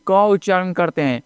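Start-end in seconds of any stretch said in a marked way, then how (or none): 0.1-0.1 क as "kuh", not "kay"; letter sound क, "kuh". Shown as a demonstration. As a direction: sound out क with an open vowel. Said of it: "के नहीं".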